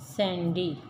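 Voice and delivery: सैंडी broken as सैं, डी; split into syllables. Shown as a demonstration. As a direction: say सैंडी in two separate beats. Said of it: "हिस्सों में पढ़ते हैं".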